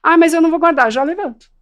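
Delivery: put-on defiant child. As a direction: push back like a small child. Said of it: "child refusing again".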